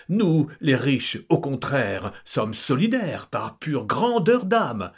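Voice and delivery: slow, puffed-up aristocratic pride; pompous boast. Acted. Count lecturing family, slow pompous boast. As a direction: swell with self-importance, slowly.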